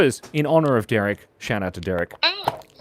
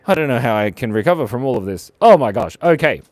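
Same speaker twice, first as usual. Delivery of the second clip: put-on Cockney, quick and bouncy; a Mary Poppins style Cockney; Cockney accent; 2 semitones lower, 4 dB louder than usual. Streamer shows off Cockney accent to chat, quick and playful. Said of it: "You like my Cockney accent?".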